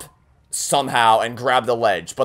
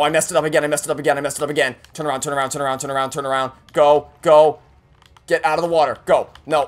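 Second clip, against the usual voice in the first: ordinary talk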